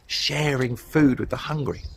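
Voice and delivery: hushed, breathy emphasis on the phrase; whispered. Acted. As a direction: whisper it to draw them in. Repeating key phrase softly.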